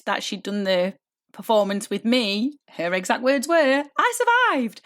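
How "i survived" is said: high, sing-out exclamation of triumph; imitating triumphant relief. Coach repeats what her student told her, high triumphant cry. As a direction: proudly proclaim it, pitched way up. Quoting the proud student again.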